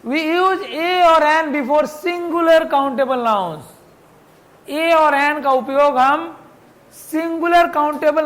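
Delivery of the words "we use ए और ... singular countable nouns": slow dictation. Shown as a demonstration. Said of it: "teacher dictates the rule".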